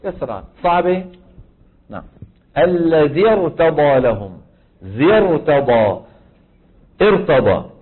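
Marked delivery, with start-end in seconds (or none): 2.6-4.4 الذي ارتضى لهم drawn out slowly with a heavy ر in ارتضى; ارتضى stretched and slow, ر heavy; slow Quranic demo. Shown as a demonstration. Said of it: "كسرة همزة الوصل". 4.8-7.7 الذي ارتضى لهم drawn out slowly with a heavy ر in ارتضى; ارتضى stretched and slow, ر heavy; slow Quranic demo. Shown as a demonstration. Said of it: "كسرة همزة الوصل".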